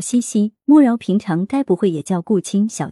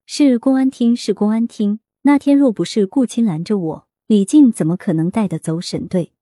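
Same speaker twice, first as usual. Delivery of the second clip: angry. Acted. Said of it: "恼怒怨愤".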